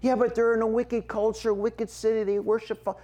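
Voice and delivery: a hint of a skeptical questioner; objector's voice. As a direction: push back like a doubting churchgoer. Preacher voices a worldly objector.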